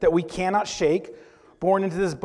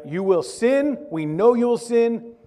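loud, raised-pitch preaching as God; emphatic divine pronouncement; 7 semitones higher, 7 dB louder than usual. Acted. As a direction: lay down the law forcefully. Voicing God giving the law.

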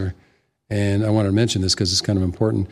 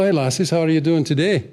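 lilting, higher Scottish brogue; Scottish accent; 6 semitones higher than usual. Retold or imitated. Man chatting up two girls at a bar, Scottish accent. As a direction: greet them as a friendly Scot. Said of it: "let them think I'm from Scotland".

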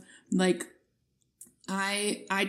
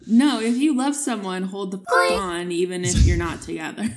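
mock insistent; 5 dB louder than usual. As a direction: parody a clingy romantic motto. Voicing Glee's message, parody.

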